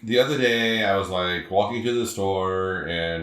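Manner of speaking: casual California accent demo. Shown as a demonstration. Host demonstrating how Californians just go, California accent. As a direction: drag it out as a Californian, littered with 'like'. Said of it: "I can do California".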